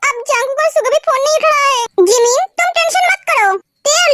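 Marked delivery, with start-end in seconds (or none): 0.1-1.8 crying out in distress; tearful. Acted. To her brother, crying and scared. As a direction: plead through tears. Crying sister calls for help.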